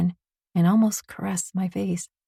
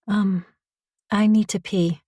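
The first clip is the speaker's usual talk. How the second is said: unsure; 3 semitones higher than usual. Acted. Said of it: "My voice sounds unsure".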